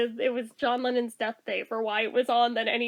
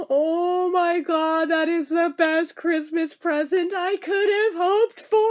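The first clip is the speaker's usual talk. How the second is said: teary joy; 3 semitones higher than usual. Retold or imitated. Telling the coworker it's the best Christmas present, teary. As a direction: let the voice choke up with happy tears. Overjoyed at news, near tears.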